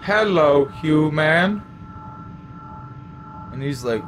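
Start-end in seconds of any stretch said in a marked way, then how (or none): 0.0-1.6 louder, slow alien greeting; alien brain voice. Acted. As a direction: greet him like an eerie alien. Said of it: "you just hear".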